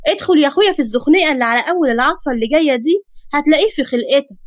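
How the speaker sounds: lightly sassy, rattled-off directions; hint of a mouthy neighbourhood girl; brash street girl. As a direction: rattle off directions with impatient attitude. Voices the brash girl giving directions.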